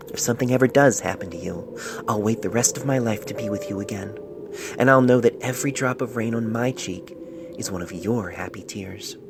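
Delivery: gentle letter voice with a catch of emotion; tender letter reading. Acted. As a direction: read it like a letter to a beloved. Letter read in a character's voice.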